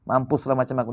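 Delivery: worried muttering. Acted. Anxious man lamenting his state to himself, understated worry. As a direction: quietly fret to yourself, lightly acted. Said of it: "cemas, khawatir".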